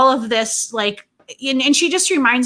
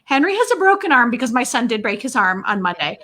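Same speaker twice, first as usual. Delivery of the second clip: put-on pleading kids; 2 semitones higher than usual. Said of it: "They're like".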